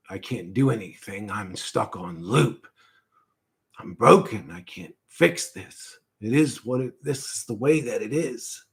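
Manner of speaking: quiet tormented apology; really apologetic. Retold or imitated. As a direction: say it like someone tortured for a thousand years. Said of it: "I mean, really apologetic".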